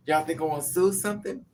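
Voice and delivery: normal talking voice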